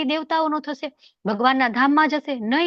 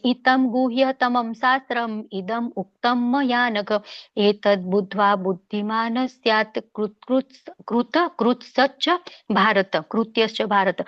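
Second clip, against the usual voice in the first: verse recitation. Acted.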